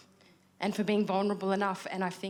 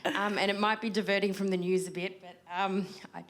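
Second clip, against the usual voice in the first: breathless, gasping between phrases; short of breath, snatching air between words. Real, not acted. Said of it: "I'm out of breath 'cause I'm pregnant".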